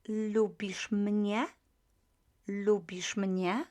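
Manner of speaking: slow lubisz mnie rising on mnie; rising question. Shown as a demonstration. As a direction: ask it, lifting mnie at the end. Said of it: "just raise the intonation".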